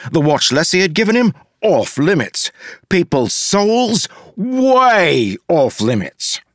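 high-pitched, emphatic rule-giving; indignant insistence. A narrator's reading. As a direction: lay down what is off limits, stretching the last. Character's indignant list of rules.

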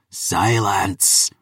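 sharp, cutting order; curt rebuke, not shouted; snapped command. A narrator's reading. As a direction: cut your daughter off with one word. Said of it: "Nikita snapped".

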